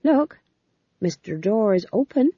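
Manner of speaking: high bright pet-talk; sing-song coaxing. Acted. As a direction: coax it like talking to a toddler. Fool coaxing cat, high pitch.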